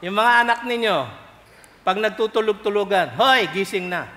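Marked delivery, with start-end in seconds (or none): 3.2-4.1 calling to wake. Retold or imitated. Parent waking a feigning child.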